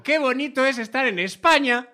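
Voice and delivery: hammed-up diplomatic cheer; mock cheerful tourist. Comedian dodges the Girona question with a loud mock-cheerful line. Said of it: "yo voy allí y digo".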